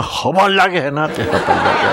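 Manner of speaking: Jeolla dialect, quick and playful. Shown as a demonstration. Lecturer amuses the audience with a regional version, in Jeolla dialect. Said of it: "전라도 말로 하면".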